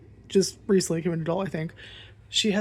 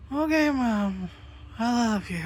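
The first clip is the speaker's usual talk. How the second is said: a lightly higher cute cat voice; cat's sweet reply; 5 semitones higher, slower than usual. Pretend.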